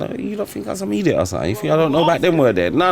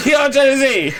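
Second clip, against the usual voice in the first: raised, higher, shouting voice; worked-up rant; 6 semitones higher than usual. Real, not acted. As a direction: shout it out, fired up and half laughing. Ranting about the word urban.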